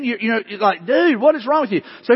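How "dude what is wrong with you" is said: higher-pitched incredulous challenge; exasperated disbelief. Acted. Preacher challenging a sour-faced Christian, exasperated disbelief. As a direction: ask it in mock exasperation.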